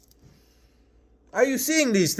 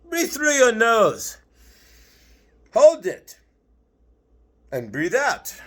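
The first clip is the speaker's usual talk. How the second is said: guided breathing. Shown as a demonstration. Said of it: "Let's all do so".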